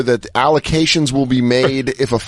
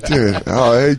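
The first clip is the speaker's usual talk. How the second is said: usual speaking voice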